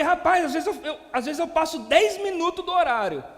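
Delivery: high, loud retold outburst; astonished protest. Comparing his own overruns to the pastor's, astonished protest.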